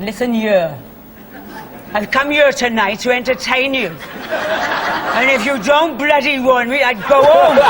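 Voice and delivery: broad Welsh scolding, laughing as she tells it; laughing Welsh telling-off to a rowdy audience; strong Welsh accent. Retold or imitated. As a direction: tell them off in a thick Welsh accent. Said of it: "in this very Welsh accent".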